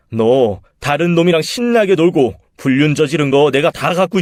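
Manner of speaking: loud, threatening husband; angry accusation. Acted. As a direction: lay out the accusation coldly furious. Husband exposes affair. (불륜을 따지며 위협하는 남편)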